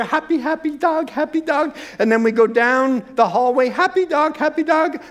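chirpy pet voice, bouncing along; happy little dog. Pretend. The tiny dog trotting happily down the hallway, chirpy voice.

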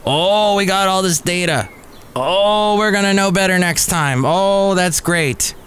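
high, chirpy spin on the failure; mock-upbeat spokesman. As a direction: sell the bad news cheerfully. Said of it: "the way they spin it".

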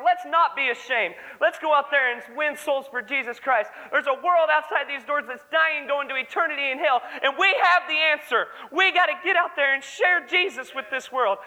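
put-on rally the young people to go win souls; preaching. Young preacher urging church to share Jesus, fervent preaching.

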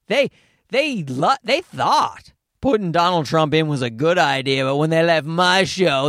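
lightly voiced self-important comic, a bit slow; a hint of a pompous comic bragging; mock smug comedian. Comic mocking edgy comedians, hint of smug bragging. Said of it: "That's what they say".

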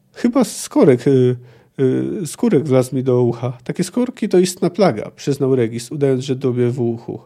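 expressive novel reading with lively dialogue; storyteller acting out the dialogue; story narration. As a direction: read the excerpt aloud, animating each quote. Reads a novel excerpt aloud.

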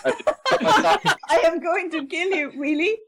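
put-on slow drawn-out accented robot threat; lightly voiced Indian killer robot; slow Indian Terminator.

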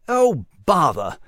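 slow fussy little mouse; mouse exclaiming. Acted. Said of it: "the mouse exclaimed".

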